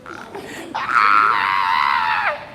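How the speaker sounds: long, drawn-out mock laugh; imitated laugh. Shown as a demonstration. Showing the team how people laugh at you, mock laugh. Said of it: "Have you seen people laughing".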